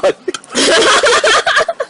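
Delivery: squealing high laugh; high giggle. Real, not acted. Laugh after teasing.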